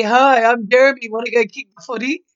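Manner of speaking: blokey lad voice, quick at the end; a hint of a laddish bloke; Jeremy voice. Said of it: "I used to be Jeremy to annoy my little brother".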